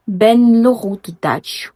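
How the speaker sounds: "Ben Loro Dutch" lent, bien détaché; étirer lentement "Ben Loro Dutch"; slow careful practice. Shown as a demonstration. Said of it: "J'espère que je prononce bien". (répétition lente et appliquée)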